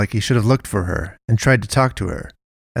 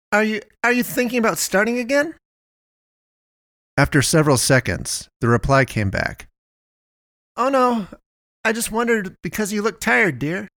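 much higher, chatty shopkeeper calling out; the busy caring owner, pitched way up; high-voiced Melinda; 12 semitones higher than usual.

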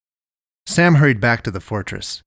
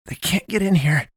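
high-pitched nervous insistence; anxious repetition; 8 semitones higher than usual. A narrator's reading. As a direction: keep repeating it, voice raised in pitch. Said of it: "Sam kept saying".

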